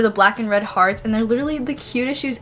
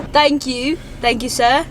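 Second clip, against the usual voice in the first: light mock British thank you; prim little British thanks; a hint of a British accent, playful; 2 semitones higher, slower than usual. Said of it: "my British accent".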